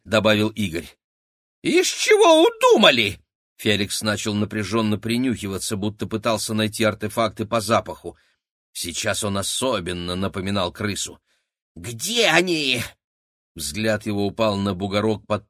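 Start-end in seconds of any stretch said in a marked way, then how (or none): 1.6-3.2 very high, loud squeal; squeaky rat voice. A narrator's reading. Rat man squealing at the kids' plan. Felix voice. 11.7-12.8 high, slow sniffing squeak; a rat hunting by scent; squeaky rat voice. A narrator's reading. Rat man sniffing for the artefacts, slow squeak.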